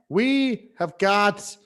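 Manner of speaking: mock presidential address; lightly hammed Biden; Joe Biden impression. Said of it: "This does seem as something like Joe Biden would do".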